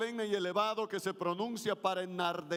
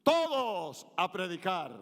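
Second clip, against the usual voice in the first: 1 firm group call; 4 dB louder than usual. Shown as a demonstration. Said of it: "Si me ayudan a repetir".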